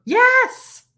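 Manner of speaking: high, loud burst of agreement; emphatic yes. Real, not acted. Woman insisting she'd know how to flirt, emphatic. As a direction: shoot the word up, loud and sure. Emphatic answer to a doubtful "Yeah?.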